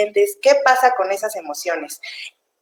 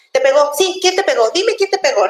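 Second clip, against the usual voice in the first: higher, insistent interrogation; pushy parent; 5 semitones higher than usual. Retold or imitated. Parent grilling a child about who hit him, pushy and higher. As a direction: fire questions at the kid without letting him answer.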